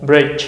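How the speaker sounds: "bridge" said with a final J sound; teacher models "bridge" again; bridge drill. Shown as a demonstration. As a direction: repeat "bridge", ending on J. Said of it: "G E หมดเสียง J".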